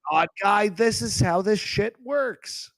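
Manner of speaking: high, exasperated rant; exasperated outburst. Acted. Caller telling off the host for leaving him lost, exasperated.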